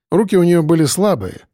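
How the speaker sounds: plain reading voice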